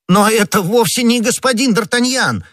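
very high, loud squawk of protest; startled cry. A narrator's reading. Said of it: "вскричал Бонасье".

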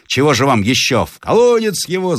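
high-pitched peasant outcry; crowd yelling. A narrator's reading. Peasants demanding the captive go down the well, yelling. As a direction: cry it out as a mob demanding punishment. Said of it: "завопили почти все крестьяне".

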